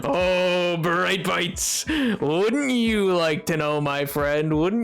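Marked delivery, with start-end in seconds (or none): 1.9-4.6 slow, teasing drawl. Acted. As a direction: tease it out slowly. Teasing reply, repeated plainly.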